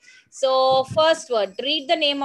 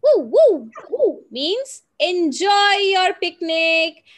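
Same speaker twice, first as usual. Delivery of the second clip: higher and louder playful puppy woofs; 5 semitones higher, 5 dB louder than usual. Acted. Teacher voicing the puppy saying goodbye with happy woofs. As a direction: bark it out like a happy little puppy. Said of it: "and puppy says".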